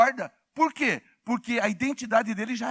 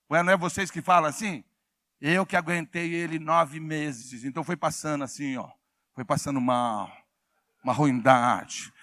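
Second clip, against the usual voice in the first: mocking mother; 6 semitones lower than usual. Mother voiced, answering the preacher. (imitação leve de mãe queixosa)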